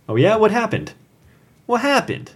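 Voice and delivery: high, eager, curious asking; eager questions. Retold or imitated. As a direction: lean in, dying to hear the story. Patron asks eagerly in story.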